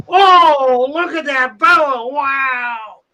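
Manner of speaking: high, awed exclaiming; excited kid. Acted. Teen spotting the boa in the shop, awed high exclaim. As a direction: marvel at the snake like a wide-eyed teen.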